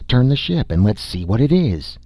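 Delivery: urging the captain, keen to see; excited. Acted. Nasha urges turning the ship.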